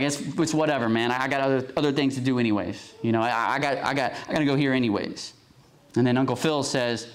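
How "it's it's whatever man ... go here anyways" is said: playing it off. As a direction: act like it's whatever, hiding disappointment. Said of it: "he tries to play it off".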